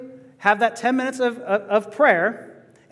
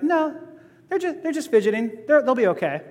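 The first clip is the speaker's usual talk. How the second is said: lightly voiced parent, higher at first, easing down; reassuring parent; 4 semitones higher than usual. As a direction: brush off the worry as a knowing parent, lightly. Voicing a knowing parent to guests.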